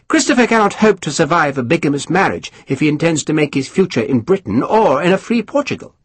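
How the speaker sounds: high, mannered lord spreading gossip; high aristocrat voice. Acted. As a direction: lift the pitch, savour the scandal. Pumphrey explains.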